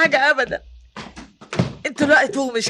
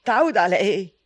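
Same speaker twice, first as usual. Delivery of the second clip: weary despair; 8 dB quieter than usual. Acted. Exhausted mother in cell at dawn.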